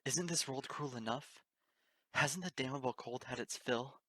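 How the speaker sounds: slow, loud, raw anguished yell; ruthless yell. Acted. Unicorn yelling at the kind pony, slow and loud. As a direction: hurl every word at her. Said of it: "I ruthlessly yelled at her".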